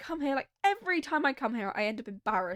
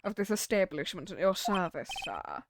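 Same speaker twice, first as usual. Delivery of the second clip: lightly voiced British bellboy; British accent; 3 semitones lower than usual. Bellboy introducing himself to a guest, British accent. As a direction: deferential British accent, sinking low on the last "sir". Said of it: "British accent for this guy".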